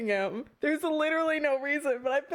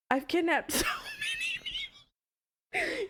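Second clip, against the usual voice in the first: laughing squeal; 3 dB quieter, slower than usual. Real, not acted. Laughing at game scene.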